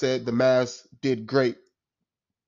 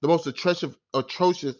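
stumbling, sputtering over the word in anger; words tripping over real anger; getting tangled up in frustration; too angry to speak; 3 semitones higher than usual. Real, not acted. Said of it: "I can't even speak correctly".

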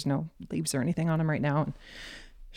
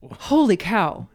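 slow, louder, stunned holy cow; amazed exclamation; 4 semitones higher, 8 dB louder, slower than usual. Retold or imitated. Hunters reacting right after the buck drops, slow stunned exclaim. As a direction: let the amazement stretch out.

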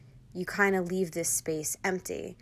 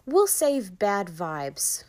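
slow, loud, pointed; knowing understatement; 2 semitones higher, 6 dB louder, much slower than usual. Real, not acted. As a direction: lean on it with a wink. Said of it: "I'll whitewash it a little bit".

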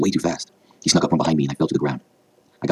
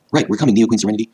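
high, loud team answer; shouted reply; 7 semitones higher, 5 dB louder than usual. A narrator's reading. Scouts answering their queen in battle, high shout. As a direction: call back that help is coming. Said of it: "they shouted together".

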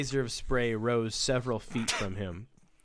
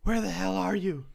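higher-voiced henchman calling back; 6 semitones higher than usual. A narrator's reading. Villain searching for his mate, calling out. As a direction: call out for the other man.

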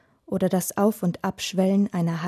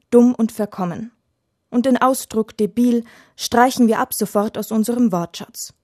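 stern scolding; 2 semitones higher, 5 dB louder than usual. Acted. Father scolds daughter's rude word.

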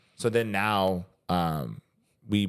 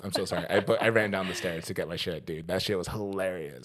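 out of breath; 4 dB quieter than usual. Real, not acted. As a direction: still a bit winded. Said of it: "I'm out of breath".

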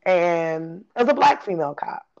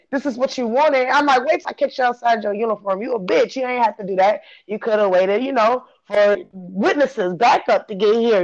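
a touch of raised angry trash talk; mock threaten the cop; lightly heated venting; 4 semitones higher than usual. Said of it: "now I'm gonna talk shit".

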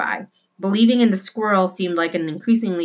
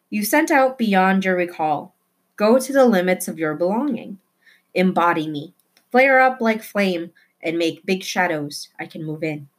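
poem recital. A narrator's reading. Tootie reciting poetry to the squirrel, earnest recital. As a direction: recite it with feeling.

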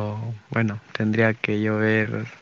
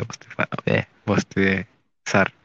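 words stretched by a yawn; talking mid-yawn. Real, not acted. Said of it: "acabo de bostezar".

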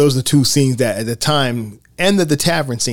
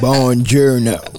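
slow, drawn-out mock Italian; bad Italian accent; much slower than usual. Mimicking a character who can't pass as Italian, bad Italian accent. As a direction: stretch out a badly faked Italian greeting. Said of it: "that's an interesting accent".

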